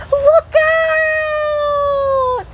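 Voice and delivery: high, loud warning shout; calling out. Acted. Littlest rabbit to the racers, shouting a warning. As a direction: yell a warning. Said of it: "he called".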